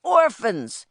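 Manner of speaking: high, drawn-out shout at a crowd; roaring boss's call. A narrator's reading. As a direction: bellow each word slowly to summon a crowd. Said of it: "he shouted".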